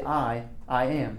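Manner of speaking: slow, doubled "I, I am"; stress on I. Shown as a demonstration. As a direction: say "I" twice, slowly, to stress it. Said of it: "he's emphasizing the I".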